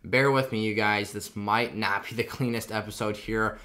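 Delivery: stitches tugging when talking; speaking carefully with a sore mouth; after wisdom teeth. Real, not acted. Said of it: "I've got stitches in my mouth right now".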